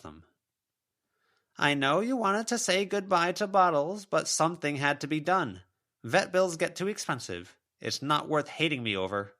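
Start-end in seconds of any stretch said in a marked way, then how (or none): 1.6-9.4 a mother's ghost listing her excuses; self-pitying spectral mother; wounded ghost mother. A narrator's reading.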